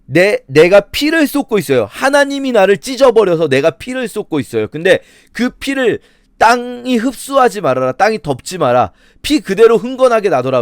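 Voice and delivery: acted outcry of a wronged man; aggrieved Job. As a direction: preach Job's protest with urgency. Voices Job crying out over blood.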